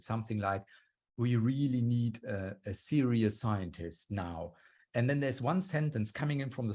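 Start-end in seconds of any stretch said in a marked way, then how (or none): 1.2-4.5 imitating a hardcore American accent, slow and drawn out. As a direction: lightly mimic a slow American podcast host. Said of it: "they say in a hardcore American accent".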